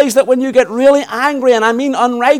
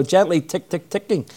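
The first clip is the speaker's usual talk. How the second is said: softer, dainty tick, tick, ticking; gentle tapping; 6 semitones lower, 7 dB quieter than usual. Shown as a demonstration. Preacher showing a conductor's baton, soft and dainty. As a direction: fade it to a light conductor's tap. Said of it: "he's not gently tapping the rock".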